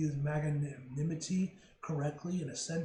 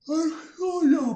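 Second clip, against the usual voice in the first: surprised; 10 semitones higher, 10 dB louder than usual. Real, not acted. Reacting in game.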